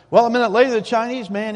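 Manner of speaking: normal talking voice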